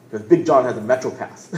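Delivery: laughing through the punchline; amused, laughing at his own joke. Real, not acted. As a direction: chuckle as you land it.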